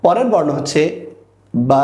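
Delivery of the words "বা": বা with its vowel held long; drawn-out letter. Shown as a demonstration. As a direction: stretch the vowel of বা as a model. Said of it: "single যখন আমরা বর্ণ শিখব তখন একটু আমরা টেনে". (বা টেনে উচ্চারণ)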